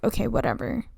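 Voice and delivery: breezy, careless okay whatever; dismissive okay whatever. Retold or imitated. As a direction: Countess shrugging off the marriage news, airily dismissive. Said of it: "but she's kinda like".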